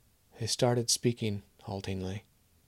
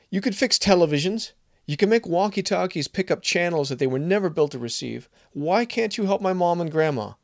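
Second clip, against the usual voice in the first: angry pleading; 8 semitones higher, 6 dB louder than usual. Acted. Kevin shouts at Maria, pleading.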